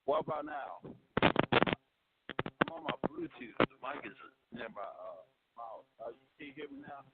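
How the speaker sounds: faint Bluetooth caller voice; barely audible. Real, not acted. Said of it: "Very, you're very faint".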